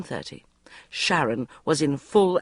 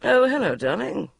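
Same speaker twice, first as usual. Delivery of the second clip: gentle polite voice; 7 semitones higher than usual. A narrator's reading. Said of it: "in his gentlest, politest voice".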